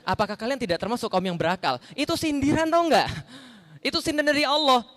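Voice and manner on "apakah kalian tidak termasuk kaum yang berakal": relaxed reading. Shown as a demonstration. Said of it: "Kalau dibaca dengan benar begini".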